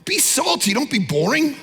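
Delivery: high, lively urging; encouraging call. Retold or imitated. Jesus urging followers, high and lively. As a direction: cheer them on to be salty. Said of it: "Jesus is like".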